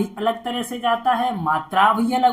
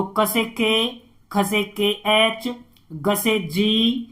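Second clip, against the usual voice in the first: slow spelling demo; much slower than usual. Shown as a demonstration. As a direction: spell each letter slowly. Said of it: "आपको पता होना चाहिए ना". (धीमे-धीमे वर्तनी)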